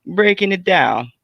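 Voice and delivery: high-pitched New York guy impression; New York accent. Friend mimicking streamers shooting the breeze, New York accent. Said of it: "got the New York accent".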